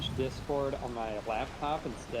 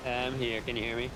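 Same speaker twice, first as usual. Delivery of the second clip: far from mic. Real, not acted. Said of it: "It just sounds like you're far away".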